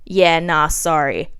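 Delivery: low, offhand mumble; a hint of a careless boyfriend; mild offhand ex; lightly voiced ex.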